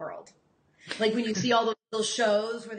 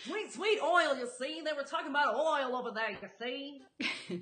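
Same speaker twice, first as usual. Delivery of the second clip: a hint of an old-time street hawker; lightly voiced 1920s newsboy calling; newsboy yelling headlines. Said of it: "You've got your Newsies voice down".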